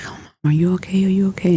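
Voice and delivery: mock worried children asking quickly; worried kids. Kids worried about their mom.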